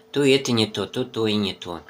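chewing while talking; slurping noodles between words; mouth full of noodles. Real, not acted. Seen 1: Noodles on spoon at lips, chewing throughout the labelled words.

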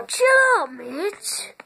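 high, loud shout of chill out. Real, not acted. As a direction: yell it to calm him down. Telling Mitch to calm down.

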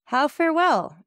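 high-pitched, protesting outburst; startled exclamation. A narrator's reading. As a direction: exclaim it in sudden dismay. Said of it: "exclaimed Julie".

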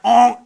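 short imitated donkey grunt; donkey honk. Donkey responding to swearing miner, comic honk. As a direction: give a brief comic bray. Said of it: "the donkey would like".

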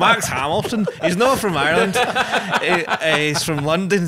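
laughing exclamation; excited. Real, not acted. Laughing correction, louder.

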